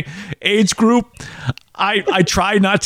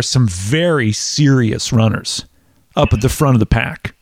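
derisive; 7 semitones lower than usual. Real, not acted. Podcaster telling of serious runners at the front, derisive. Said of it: "you say that with such derision".

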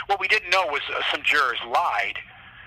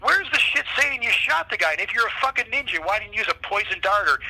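retold disbelief, pitched up high; incredulous cops; 6 semitones higher than usual. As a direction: mimic guards who can't believe the case.

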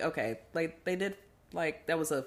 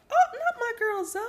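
high, louder shocked disbelief; disbelieving; 6 dB louder than usual. Retold or imitated. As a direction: gasp it out, she can't believe it. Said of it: "I was like".

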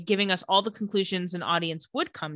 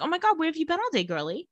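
gushing Elena; 7 semitones higher, 3 dB quieter, faster than usual. Retold or imitated. Elena voiced gushing on phone.

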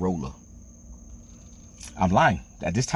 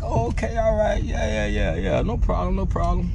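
high, breezy, easygoing dad voice; imitating pops; 11 semitones higher than usual. Dad reassures the fish market owners in a high, breezy voice. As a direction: brush it off like a busy dad. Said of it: "My pops like".

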